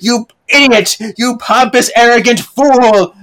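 a grandma hurling insults, pitched high; mock outburst. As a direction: scold him like a furious old lady. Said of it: "she calls Ma-, Maxwell".

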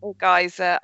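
"geyser" said as GUY-zer; "geyser" rhyming with "miser"; alternative pronunciation. Shown as a demonstration. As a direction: say "geyser" with an eye sound first. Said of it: "it's pronounced in many different ways".

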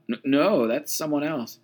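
startled, stammering denial; blurted out. Retold or imitated. Peter denies knowing Jesus to the girl, startled. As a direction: trip over the first no. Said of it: "Simon instinctively blurted out".

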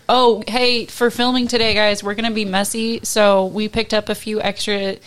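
perky, loud crew voice; chirpy crew member. Retold or imitated. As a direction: play an upbeat film crew guy.

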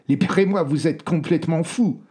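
high, loud and outraged; furious shout. Acted. Tied-up German prisoner yelling at the sailors, furious. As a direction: yell your demand to be freed. Bound prisoner yells at captors.

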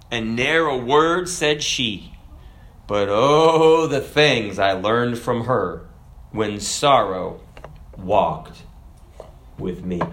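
poem recital. Acted.

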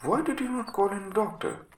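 high, loud burst of dismay; alarmed exclamation. Acted. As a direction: demand an answer in shocked alarm. Alarmed doctor questions landlady.

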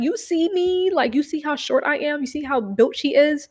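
high indignant protest. Retold or imitated. Arguing to the principal, high indignant protest. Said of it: "I was like".

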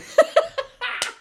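high, rapid-fire cackle; laughing. Real, not acted. Laughing at a viewer's exam story, amused. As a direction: crack up in a high staccato laugh.

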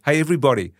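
retold announcement to a whole room; calling out. Player introduces his guest to the team, calling out. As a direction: pitch it up a little, addressing everyone.

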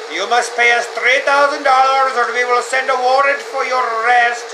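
scam caller. Acted. Mimicking IRS scam calls to a friend, put-on scammer voice. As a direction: announce it like an official-sounding phone scammer. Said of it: "the ones where they're like".

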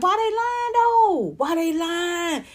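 high, drawn-out incredulous question; mock disbelief. Comic scoffs at people predicting she dies alone, incredulous. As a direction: scoff at the lie, stretching it out. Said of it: "I be like".

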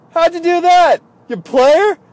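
high, loud mock disbelief; astonished. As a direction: cry out high-pitched like an amazed, admiring buddy. Stunned guys react to the card.

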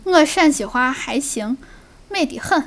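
slow, proud Shaanxi dialect; Shaanxi accent. Shown as a demonstration. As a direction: say 美得很 the Shaanxi way.

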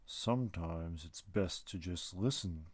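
low, slow and calm; a patient old forest spirit; wise tree creature. Acted. Tree being speaks to Lucas.

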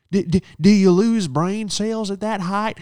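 high, slow, mocking stutter of her line; mimicking her. Throwing her height insult back at her, mocking high voice. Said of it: "I go".

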